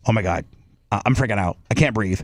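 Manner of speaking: acted claustrophobic freak-out, rising in pitch; mounting panic. Acting out panic in MRI tube.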